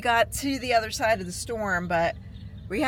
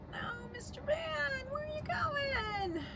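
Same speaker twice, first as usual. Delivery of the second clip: tearful plea; 10 dB quieter than usual. Real, not acted. Pleading with departing van in storm.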